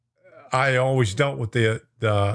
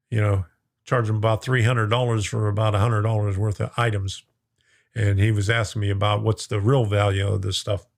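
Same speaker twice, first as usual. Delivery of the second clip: hoarse voice; 5 semitones lower than usual. Real, not acted. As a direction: voice wearing thin and hoarse. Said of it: "I'm starting to lose my voice".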